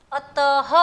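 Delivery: अतः as "a-ta-ha", ending loud; syllable-by-syllable model of अतः; sounded final h. Shown as a demonstration. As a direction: punch a clear "ha" at the end of अतः. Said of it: "त के बाद ह बोलना है".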